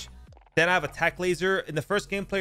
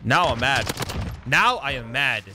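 mad; 2 semitones lower, 4 dB louder than usual. Real, not acted. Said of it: "You wouldn't like me when I'm angry".

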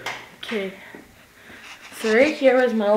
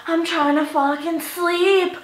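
slow, higher mock tantrum, a little laugh at the end; retold tantrum; 6 semitones higher, slower than usual. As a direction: play the cranky kid woken up, half laughing. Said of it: "And I'd be really loud".

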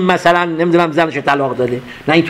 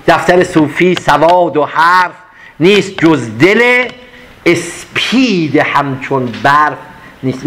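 slow, measured couplet; poem recitation; slower than usual. Acted. Teacher reciting the whole couplet to the class, measured. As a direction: recite the full couplet with weight.

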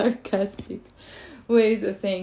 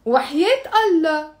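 louder mocking وحياة Allah, Allah stressed; sarcastic no; 4 semitones higher, 4 dB louder than usual. Shown as a demonstration. Teacher shows students the sarcastic version. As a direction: scoff it to mean of course not. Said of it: "that's no".

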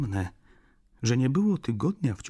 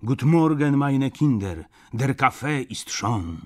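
put-on higher, louder old German grandmother; old woman; 5 semitones higher, 6 dB louder than usual. A narrator's reading. Old woman greeting everyone in the shop with coffee, higher cheerful-greeting call. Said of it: "wysunęła się staruszka w żółtej sukni".

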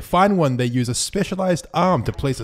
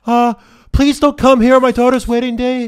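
higher, louder mob boss voice; Godfather voice; 11 semitones higher, 7 dB louder than usual. Pretend. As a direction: play the mob boss on a wedding day. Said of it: "it's like The Godfather".

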